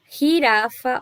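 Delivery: "girafa" com G raspado na garganta, como jota espanhol; J espanhol gutural. Shown as a demonstration. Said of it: "olha ali que eu falei do J". (jota gutural em "girafa")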